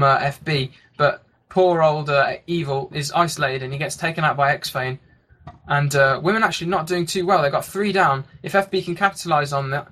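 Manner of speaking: running esports match commentary; live play-by-play. Real, not acted. Caster calling a TF2 match for listeners, live play-by-play. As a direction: call the action as it unfolds.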